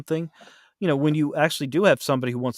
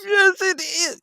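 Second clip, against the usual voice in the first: sheepish admission; 3 dB louder, slower than usual. Retold or imitated. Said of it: "And I went".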